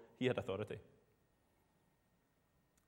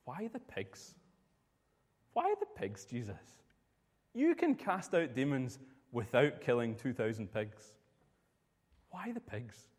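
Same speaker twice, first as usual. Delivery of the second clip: puzzled questioning. Retold or imitated. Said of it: "and thought".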